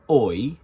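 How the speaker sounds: "oi" as a full, loud OY; overdone OY. Shown as a demonstration. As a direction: push "oi" all the way to a loud OY. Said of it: "So it's not quite".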